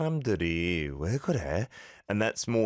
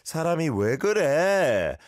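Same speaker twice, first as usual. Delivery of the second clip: exasperated; 8 semitones higher, 5 dB louder, faster than usual. Shown as a demonstration. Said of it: "Good pronunciation".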